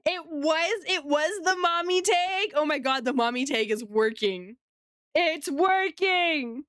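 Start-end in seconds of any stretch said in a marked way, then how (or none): 5.1-6.6 delighted. Real, not acted. Mommy tag drawing viewers in.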